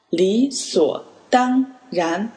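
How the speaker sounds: 理所当然 said slowly as third, third, first, second tone; slow down and give 理所当然 each of its tones clearly; teacher slowly modelling 理所当然 as third, third, first, second tone; slow tone drill. Shown as a demonstration. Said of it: "理, the third tone".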